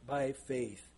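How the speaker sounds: "by faith" given the weight; stress on by faith. Shown as a demonstration. Preacher marking Hebrews' emphasis, stressing "by faith". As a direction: lean on "by faith". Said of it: "the emphasis is on".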